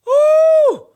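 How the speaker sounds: shrill ooh of disbelief; high shocked squeal. Real, not acted.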